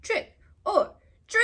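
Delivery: loud high excited call; shouted trick or treat. Pretend. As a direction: yell it like a kid at the door. Pumpkin calls out.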